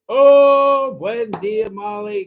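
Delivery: high, loud delighted oh; light up at a friend arriving; excited greeting. Real, not acted. Greets a viewer joining.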